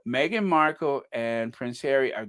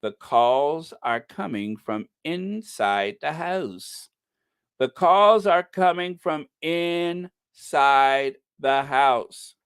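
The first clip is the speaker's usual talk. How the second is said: dramatic quote; 3 semitones higher, slower than usual. Retold or imitated. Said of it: "they said".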